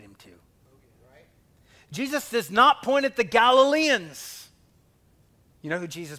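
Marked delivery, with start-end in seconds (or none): 1.9-4.5 "not" hit higher and louder; stress on not. Real, not acted. Preacher to congregation, stressing "not" with force. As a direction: punch "not" in "does not point".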